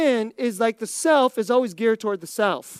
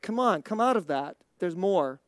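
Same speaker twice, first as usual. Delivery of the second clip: gentle teasing friend; 5 semitones lower, 3 dB quieter than usual. Retold or imitated. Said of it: "like, gently say".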